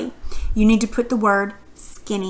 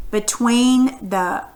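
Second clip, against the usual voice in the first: slow syllable split; slower than usual. Shown as a demonstration. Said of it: "where would the word orphan ... split".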